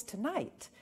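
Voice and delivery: usual speaking voice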